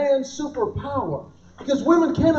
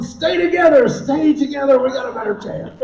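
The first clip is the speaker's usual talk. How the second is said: a slightly raised, urgent plea; lightly voiced little hairs cheering each other on; mock pep talk; mock rallying hair. Voices his remaining hair huddling together.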